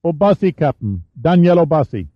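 put-on a teenage boy reporting up; adolescent voice. A narrator's reading. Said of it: "The voice had an adolescent pitch".

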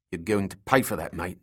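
menacing, words pushed through clenched teeth; through gritted teeth. Acted. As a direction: growl it through a locked jaw. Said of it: "he said through gritted teeth".

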